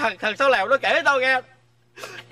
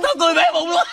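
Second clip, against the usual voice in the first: laughing, louder; laughing blurt; 4 semitones higher, 3 dB louder, much faster than usual. Acted. Stutterer laughing about Sáu Lèo's story, laughing. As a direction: laugh so hard you can barely speak.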